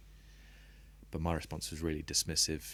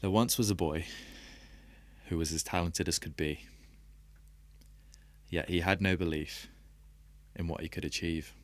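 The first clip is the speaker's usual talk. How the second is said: poem reading. Acted. Reading an old poem aloud to podcast hosts, measured and deliberate. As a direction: let each line land with a pause. Reads his own poem.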